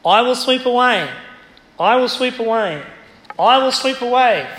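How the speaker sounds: a preacher pounding a line for emphasis; emphatic repetition. Shown as a demonstration. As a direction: drive the words home with each repeat. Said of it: "if you want to emphasise something, you repeat it".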